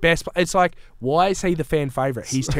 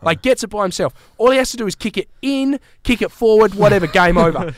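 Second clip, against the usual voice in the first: building call of the final seconds, higher and louder; excited retelling; 5 semitones higher, 3 dB louder than usual. Retold or imitated. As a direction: replay the last ten seconds like a caller. Recreating tense final seconds.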